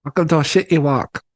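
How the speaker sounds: a quick hammed-up Hong Kong Chinese accent; mock Chinese accent tossed off as a joke; Jackie Chan impression. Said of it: "how does Jackie Chan sound".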